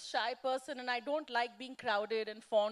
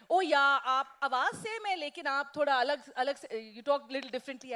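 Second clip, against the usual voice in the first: excited fans; 3 semitones higher, 8 dB louder than usual. Retold or imitated. Fans noticing the voice differs.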